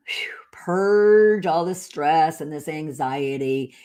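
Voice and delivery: a blown-out breath, then a drawn-out word; retold letting go. Accountant urging a stressed client to purge it, slow exhale. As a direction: exhale audibly and stretch the release slowly.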